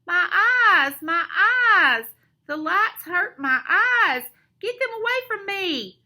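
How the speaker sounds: high, loud villain wailing in pain; loud, high-pitched anguished complaint; pained yell. A narrator's reading. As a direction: yell like a blinded cartoon villain. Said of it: "yells Odious Mole".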